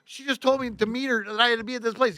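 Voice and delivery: high-pitched, worked-up objection; retold flustered protest; indignant protest. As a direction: argue your case in disbelief. Acted argument with the boss.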